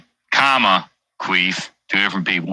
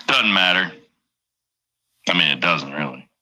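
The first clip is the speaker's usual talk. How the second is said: ordinary delivery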